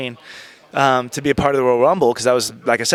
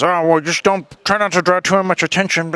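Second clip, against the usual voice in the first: crystal-shard voice; 4 semitones higher than usual. Retold or imitated. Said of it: "I really don't know how he talks, like shards of crystal".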